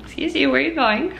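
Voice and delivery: high, fast playful scold; mock scolding. Real, not acted. Mom scolding toddler running off.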